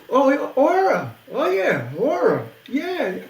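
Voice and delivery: high swooping exclamations, each falling at the end; imitated delighted recognition. Imitating a singer when introduced to the band, delighted recognition. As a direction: imitate a star happily recognizing a name.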